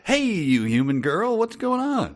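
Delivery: hammed-up cocky gorilla hello; Gordle's greeting. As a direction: greet her like a swaggering local. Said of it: "So it's more like".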